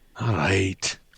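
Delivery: downcast and low. Giving in after the party refuses to eat the bird: dejected. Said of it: "He sounds all dejected".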